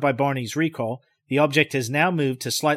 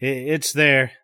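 complete resignation; slower than usual. Acted. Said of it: "with complete resignation".

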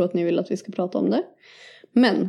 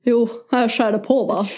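broad Norrland bondska; Norrland accent. Acted. Answering co-host in dialect, Norrland accent. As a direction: lay on northern Swedish dialect. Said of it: "vi brer på med lite bondska".

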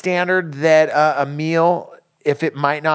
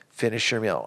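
stern parent; 4 semitones lower, 5 dB quieter than usual. Retold or imitated. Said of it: "it definitely was".

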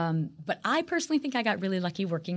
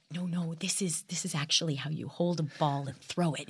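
soft, lower-pitched gentle correction; sweetly; 3 semitones lower, 5 dB quieter than usual. Retold or imitated. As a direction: retell a kindly crew member's advice, softly. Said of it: "came over very sweetly and said".

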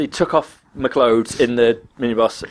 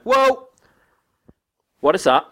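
retold shocked whoa; 7 semitones higher than usual. Attendant shocked at gimp suit.

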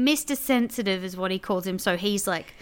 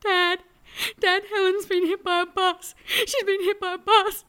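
higher, half-hearted panic; mock panicked call; 11 semitones higher than usual. Retelling calling her dad in a panic about the bus, mock frantic. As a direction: replay the frantic call, pitched up. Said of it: "was like".

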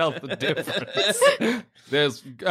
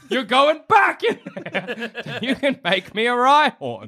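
laughing scold; 6 semitones higher than usual. Acted. Scolding the Ditto.

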